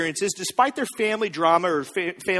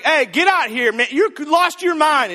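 mock indignant call-out, rising higher; exasperated family; 4 semitones higher, 4 dB louder than usual. Jesus' family confronting him, mock exasperation. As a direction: scold him like a fed-up relative, lightly acted.

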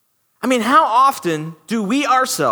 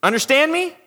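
higher, bossy mock order; rude customer; 4 semitones higher, faster than usual. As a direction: bark orders at a waiter. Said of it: "treat these waitresses ... like they're animals".

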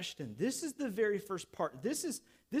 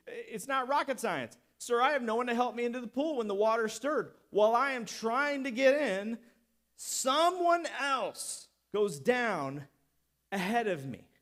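impatient explaining; 3 dB louder than usual. Retold or imitated. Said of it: "he explains it to Jesus".

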